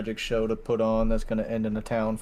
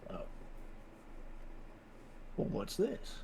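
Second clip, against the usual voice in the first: curious whisper; 6 semitones lower, 15 dB quieter, slower than usual. Real, not acted. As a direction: wonder aloud in a whisper. Curious pickup of the paper.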